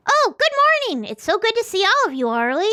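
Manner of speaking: high and friendly; welcoming host; bright cheerful greeting. Acted. GM voices Oscar greeting.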